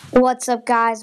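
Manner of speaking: loud excited hello; loud greeting. Acted. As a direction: call out to the audience.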